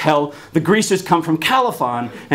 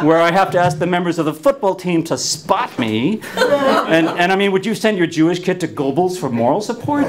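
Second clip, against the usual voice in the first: laughing; 3 semitones higher than usual. Real, not acted. Laughing through telling.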